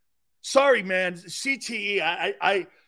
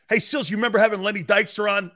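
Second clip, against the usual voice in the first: mocking listener voice; 3 semitones higher, 4 dB louder, faster than usual. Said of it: "People are gonna go like this".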